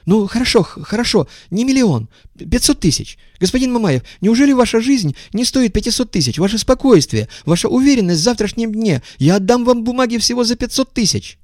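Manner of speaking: high, wheedling haggling voice; high-voiced bargainer. A narrator's reading. Visitor lowering his price, high wheedling.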